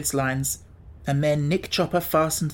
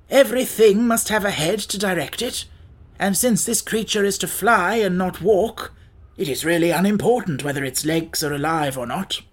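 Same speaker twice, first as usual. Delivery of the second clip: higher, firmly argued character voice; decisive Scarecrow; 3 semitones higher than usual. A narrator's reading. Scarecrow overruling Tip about the legs, decisive.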